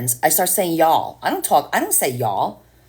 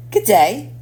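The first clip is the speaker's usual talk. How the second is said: hammed-up British greeting, higher and rising; mock British accent; 7 semitones higher, 5 dB louder than usual. Mocking a British guy met in the elevator, hammed-up British accent. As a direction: camp up a British accent on good day. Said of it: "He was British".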